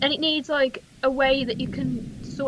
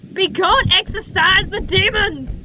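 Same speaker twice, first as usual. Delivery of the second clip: mock exorcism; 3 semitones higher, 5 dB louder than usual.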